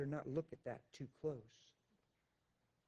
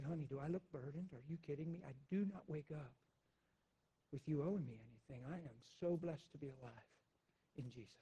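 softer, loving and sincere; gentle reassurance; 3 dB quieter than usual. Retold or imitated. Husband telling his wife she is no burden, soft and tender. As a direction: hush her fears with tenderness.

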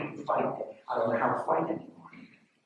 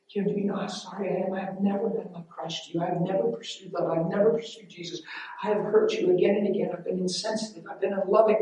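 higher, pleading imitation of a bawled confession; retold tearful apology; 5 semitones higher than usual. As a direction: pour out the retold apology in a raised voice. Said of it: "I start bawling 'cause I'm sorry".

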